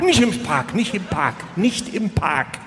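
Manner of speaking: quick panicked repeated no; mock-frightened woman refusing a date in the park; panicky refusal. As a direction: play a jittery woman begging off the park. Woman afraid of ducks refuses.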